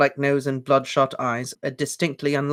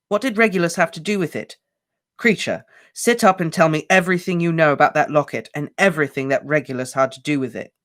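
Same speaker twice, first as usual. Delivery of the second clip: urgent; 4 semitones higher, 4 dB louder than usual. Acted. Harry presses the elf.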